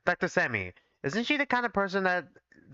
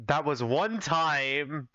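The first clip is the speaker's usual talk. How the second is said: deadpan; much slower than usual. Acted. Deadpan defence of joke.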